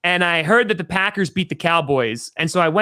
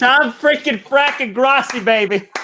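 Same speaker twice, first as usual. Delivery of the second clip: hyped self-intro; 7 semitones higher, 3 dB louder than usual. Acted. Guest hypes his own name.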